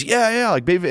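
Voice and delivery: high, squeaky imitation; retelling her reply in a high mock voice; mock flight attendant.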